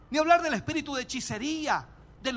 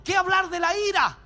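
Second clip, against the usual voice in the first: pulpit exclamation; 7 semitones higher, 6 dB louder than usual. Acted. Preacher's loud exclamation.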